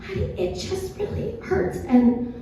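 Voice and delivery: high, soft, feeble-voiced excuse; weak little voice, well below full volume; saving the voice. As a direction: imitate a mom too sore to talk. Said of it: "trying to save my voice".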